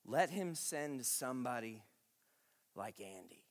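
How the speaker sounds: low, soft, joking aside; preacher quietly joking in prayer. Acted. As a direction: murmur it as a sly prayer.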